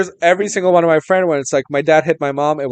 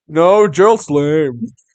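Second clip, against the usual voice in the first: mocking made-up voice. Quoting his reply in an argument-style retelling, mocking Honey's voice. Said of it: "Sorry that I'm making this voice for him".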